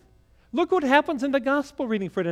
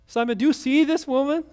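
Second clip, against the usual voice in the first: higher, insistent repeat of the question; pressing; 4 semitones higher than usual. Retold or imitated. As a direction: press Simon harder this time. Jesus presses Simon again.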